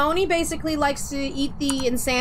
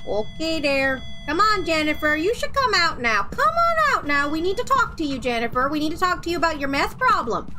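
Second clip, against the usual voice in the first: put-on singsong Minnesota mom accent, high; 4 semitones higher than usual. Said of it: "I'm hearing Missus Minnesota in stereo".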